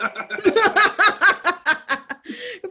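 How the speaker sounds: loud high cackle; loud laugh. Real, not acted. Gleefully laughing at a hated character's death, loud high cackle.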